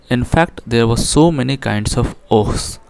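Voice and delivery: slow, careful reading aloud of the English line; slow text reading. Shown as a demonstration. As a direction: read each word out deliberately for the class. Reads English text aloud slowly. (धीमे, साफ़ अंग्रेज़ी पाठ-वाचन)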